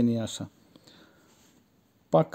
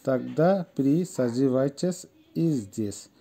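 slow repetition; much slower than usual. Shown as a demonstration. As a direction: set "здесь" apart for learners. Third take, slowed with pause. (ধীরে উচ্চারণ, "здесь"-এর আগে বিরতি)

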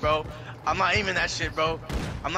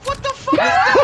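tag; 9 dB louder than usual. Real, not acted. Players erupt over ruined battle.

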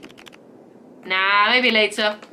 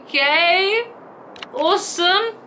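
eager wombat; 6 semitones higher, slower than usual. Acted. Wombat character agrees.

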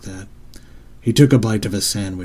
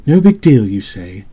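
incredulous outburst; 7 dB louder than usual. Acted. Mother to son who shrugged it off, loudly incredulous.

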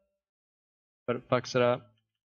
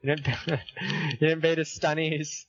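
laughing; 3 semitones higher, slower than usual. Real, not acted. Teasing friend while laughing.

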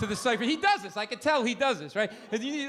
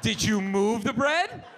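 slow condescending question; 4 dB louder, slower than usual. Retold or imitated.

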